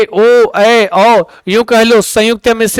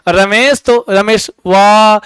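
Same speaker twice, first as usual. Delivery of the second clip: calling out a name; slower than usual. Retold or imitated. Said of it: "आप भी बुलाते होगे गांव में".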